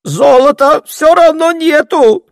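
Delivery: high, loud, slow jolted cry; startled outburst. A narrator's reading. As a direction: blurt it out, suddenly roused. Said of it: "встрепенулся старый табачник". (встревоженный выкрик)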